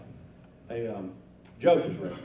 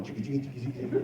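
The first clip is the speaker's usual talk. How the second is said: rattling lure noise; 2 semitones lower, 3 dB quieter, much faster than usual. Retold or imitated. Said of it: "and it's going".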